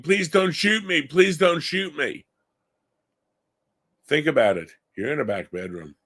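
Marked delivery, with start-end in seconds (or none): 0.0-2.3 high, pleading voice, slowing on the repeat; imitating a crying plea. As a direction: echo the son's frightened begging, pitched up. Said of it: "he hears his son's crying".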